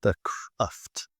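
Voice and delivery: unvoiced whispered echo. Real, not acted. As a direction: whisper the word to yourself. Echoing an unknown word.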